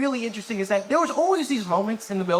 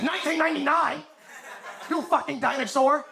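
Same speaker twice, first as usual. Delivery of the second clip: mock shock; 7 semitones higher than usual. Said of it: "then they said".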